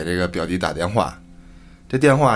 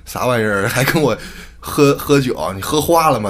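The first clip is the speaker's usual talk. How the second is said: bewildered disbelief. Acted. Older cousin on the phone to his drinking cousin, bewildered disbelief. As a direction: throw it back at him, baffled. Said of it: "这表哥一听懵登的".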